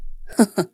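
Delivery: low, soft mocking chuckle; sarcastic laugh. A narrator's reading. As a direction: chuckle quietly in scorn. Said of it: "وقال بسخرية".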